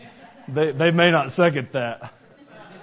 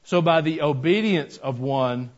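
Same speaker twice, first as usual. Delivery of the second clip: scripture reading. Acted. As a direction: read the verses with weight. Reads scripture aloud.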